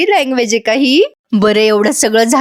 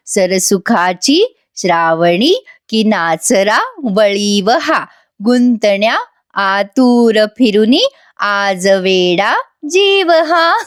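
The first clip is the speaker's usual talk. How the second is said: slow, lower sing-song lesson voice; like teaching children; 3 semitones lower, much slower than usual. Retold or imitated. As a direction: chant it like teaching kids a lesson. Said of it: "लहान मुलांना धडा शिकवतो ... तशा आवाजात". (मुलांना धडा शिकवल्यासारखे गाणे)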